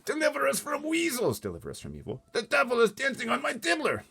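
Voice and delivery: high, loud, frantic lament; distressed wail. A narrator's reading. Giant panics over the nightmare, distressed wail. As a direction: wail like a prayer. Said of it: "getting more distressed".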